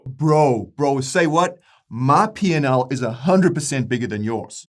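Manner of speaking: brash, hyped podcast bro voice. Acted. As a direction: play a swaggering crypto bro host. Bros boasting at each other.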